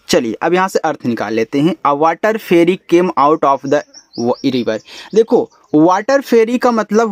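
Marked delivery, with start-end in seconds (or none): 1.9-4.8 slow, word-by-word sentence reading; slow reading aloud. Shown as a demonstration. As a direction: read it out slowly for learners. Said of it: "reads sentence for class". (धीरे धीरे वाक्य पढ़ना)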